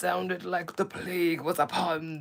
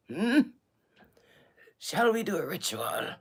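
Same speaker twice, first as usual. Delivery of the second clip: mock ancient royal voice; 2 semitones higher than usual. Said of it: "talk like this in such an ancient voice".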